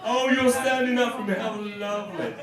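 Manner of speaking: high, delighted surprise; genuinely moved, lifting up; touched surprise. Real, not acted. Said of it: "audience stands".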